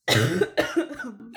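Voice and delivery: hard cough; coughing fit. Real, not acted. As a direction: cough into the mic. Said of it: "excuse-moi".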